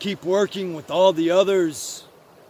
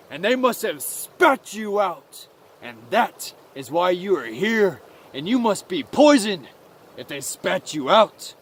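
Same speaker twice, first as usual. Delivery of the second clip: emphatic, measured scolding by lead mouse; lightly voiced stern leader; 4 dB louder than usual. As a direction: banish him as a stern elder mouse.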